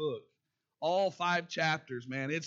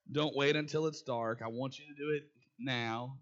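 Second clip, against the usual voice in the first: sweet parenting voice; 3 semitones lower than usual. Retold or imitated. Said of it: "in that nice, sweet, loving parenting voice".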